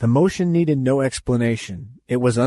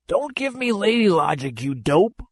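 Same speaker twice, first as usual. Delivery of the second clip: put-on roaring old man; 8 semitones higher than usual. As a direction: bark it like an enraged lion. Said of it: "roared the old man".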